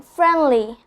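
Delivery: "friendly" with the D dropped; silent D. Shown as a demonstration. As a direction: say "friendly" without its D, like fren-lee. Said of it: "skipping the sound of the letter D".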